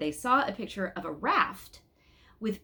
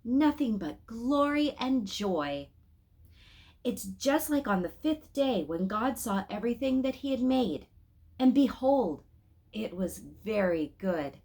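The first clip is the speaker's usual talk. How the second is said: rapturous praise; 4 semitones higher than usual. Acted. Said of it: "he called out".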